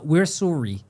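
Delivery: lightly Canadian "Suri" for sorry; Canadian accent. Acted. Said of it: "that's how they say it".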